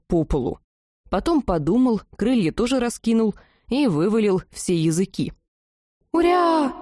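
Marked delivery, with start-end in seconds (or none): 6.1-6.7 very high, loud squeal; happy squeal. A narrator's reading. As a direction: squeal it with delight. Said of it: "запищала ментально Лазурька".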